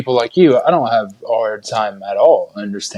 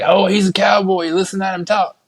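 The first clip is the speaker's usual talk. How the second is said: higher-pitched imitation of marvelling locals; mock amazement; 7 semitones higher than usual. English locals marvel at his accent, mock amazed. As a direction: gawp at an exotic accent, mockingly.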